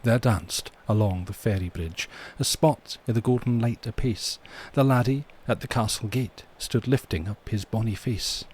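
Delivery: put-on poem read in a Scottish accent. Host opens the stream with a poem, Scottish accent. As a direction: recite it as a Scottish ballad. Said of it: "do this in a Scottish accent".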